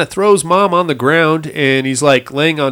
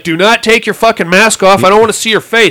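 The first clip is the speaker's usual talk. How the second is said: raised, higher mock yell; dad telling the kidnapper not to unmask, raised voice; retold yell; 5 semitones higher, 4 dB louder than usual. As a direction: snap it out in a higher, louder voice.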